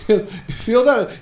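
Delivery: slow, high, loud question; imitated doctor. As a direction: draw it out high as the probing doctor. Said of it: "tugging on the things and going".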